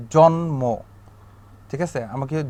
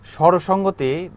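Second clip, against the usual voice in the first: slow term; 3 semitones higher, slower than usual. Shown as a demonstration.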